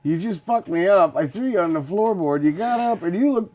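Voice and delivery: half-shouted outrage building up; exasperated rant. Retold or imitated. Driver yelling at the bee that stung him, rising outrage. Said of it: "And I'm like".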